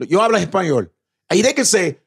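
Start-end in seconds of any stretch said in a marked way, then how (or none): 0.1-0.9 put-on New York Puerto Rican accent. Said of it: "in New York, they go".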